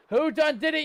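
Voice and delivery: loud, high pirate-style accusation; mock pirate shout. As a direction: accuse the crew like a hammy pirate.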